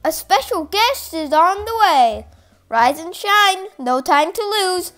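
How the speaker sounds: high and loud, calling everyone awake; eager alarm call to sleeping friends; excited wake-up call. Acted. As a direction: rouse the sleepers with a bright shout. Third wake-up chant.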